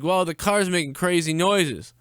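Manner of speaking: slow, high mocking voice; mocking mom. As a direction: parrot her words scornfully. Mocking the mother's complaint.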